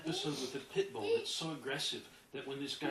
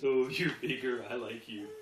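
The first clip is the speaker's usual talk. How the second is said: won-over dog; 4 semitones lower, 7 dB louder than usual. Acted. Dog yielding to the bigger trainer, won over.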